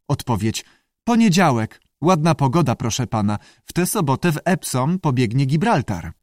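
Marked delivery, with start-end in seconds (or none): 1.0-6.1 lightly voiced pupil, pitched up; a hint of an eager pupil; quizzed pupil Andy.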